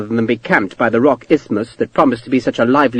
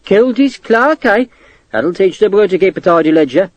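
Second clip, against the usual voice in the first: smirking; 8 semitones higher, 3 dB louder than usual. A narrator's reading.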